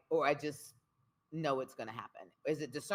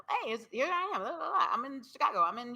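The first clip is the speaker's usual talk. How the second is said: bubbly self-imitation; 11 semitones higher, 5 dB louder, faster than usual. Imitates herself sharing.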